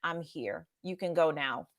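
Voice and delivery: softly retold, barely voiced tender words; soft whisper. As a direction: lean in and murmur it gently to the dying woman. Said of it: "I whispered".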